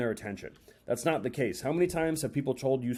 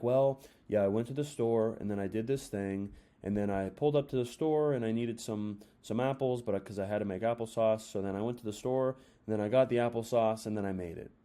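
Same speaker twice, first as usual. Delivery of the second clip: low, flat monotone drone; mock a dull teller who has no tone; boring storyteller; 4 semitones lower than usual. Shown as a demonstration. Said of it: "They have literally none of this".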